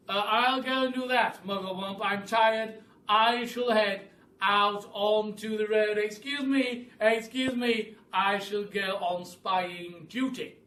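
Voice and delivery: high, loud bird voice; roly-poly bird. A narrator's reading. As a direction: ask eagerly in a squawky bird voice.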